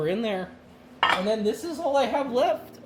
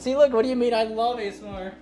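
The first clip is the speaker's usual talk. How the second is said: louder, higher mock-indignant protest; loud playful protest; 5 semitones higher, 3 dB louder, faster than usual. Real, not acted. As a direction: call it out at the chat, half laughing. Protesting a chat claim.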